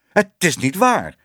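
high, emphatic denial; calling out. A narrator's reading. Accused man denies the photos before the hall, calling out high. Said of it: "riep hij".

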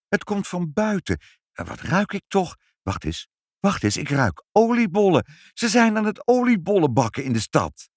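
a mother delighted by a smell from outside; lively mother. Acted.

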